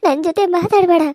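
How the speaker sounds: high, tearful, sobbing reproach; ಅಳುತ್ತಾ ದೂರುವುದು; crying reproach. Acted. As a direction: cry out the blame. Daughter crying, refusing to talk.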